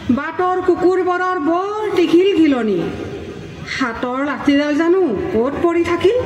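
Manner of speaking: measured recital with lifted, falling phrases; poem recitation. Acted. Poet voices a mother calling her son home, expressive poem recitation. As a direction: recite in short phrases with pauses between.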